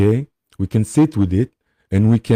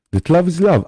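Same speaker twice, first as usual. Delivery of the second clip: laughing; 8 semitones higher than usual. Real, not acted. Laughs while restating his belief.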